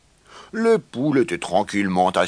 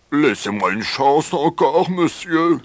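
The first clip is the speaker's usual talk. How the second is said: high, pitiful begging; pleading; 6 semitones higher, 4 dB louder than usual. A narrator's reading. Rooster begs the farm owner, pleading. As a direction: plead for one last chance. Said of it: "supplia-t-il".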